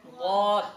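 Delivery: loud, firm দদ from one side of the mouth; letter drill; Arabic letter demo. Shown as a demonstration. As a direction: model দদ clearly. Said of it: "যেমন এইভাবে বলতে হবে".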